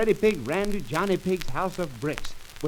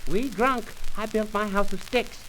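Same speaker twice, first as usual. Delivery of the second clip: higher little pig voice; 4 semitones higher than usual. Acted. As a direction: chirp it like a small pig.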